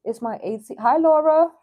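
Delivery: usual speaking voice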